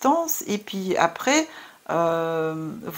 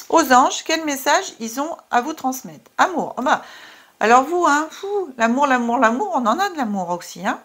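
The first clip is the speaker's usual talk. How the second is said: excited; 5 semitones higher, 3 dB louder than usual. Real, not acted. Excited card reveal.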